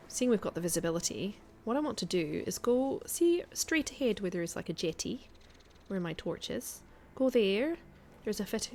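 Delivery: light put-on Scottish accent while gaming; a hint of Scottish brogue, casual chat. Streamer chatting to her stream viewers in a light Scottish accent. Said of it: "we're going to do a little bit of Scottish".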